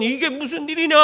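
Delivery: high-pitched, indignant mother-in-law; mock angry scolding. Mother-in-law finds the rice burnt, mock angry. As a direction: act out an outraged demand. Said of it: "막 욕설을 퍼붓고".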